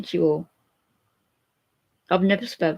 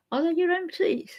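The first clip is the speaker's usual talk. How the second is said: imitating sister; 11 semitones higher than usual. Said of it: "she said".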